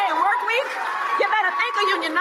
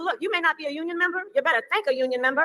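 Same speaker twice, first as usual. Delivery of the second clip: put-on Southern accent; faster than usual. Real, not acted. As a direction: slip into a Southern preacher cadence. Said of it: "Why are you changing your accent?".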